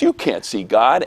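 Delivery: firm retold contradiction at full voice; argumentative classmate. Classmate starts a big argument, firmly contradicting. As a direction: imitate a kid digging in.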